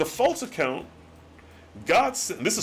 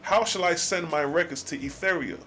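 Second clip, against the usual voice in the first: solemn scripture reading; 3 semitones lower than usual. Acted. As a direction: read the old words like a solemn sermon. Reads God's archaic reply.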